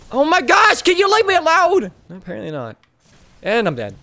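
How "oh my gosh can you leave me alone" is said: high, loud fed-up yell; exasperated yell. Real, not acted. Gamer hunted by an enemy yells at it, high and loud.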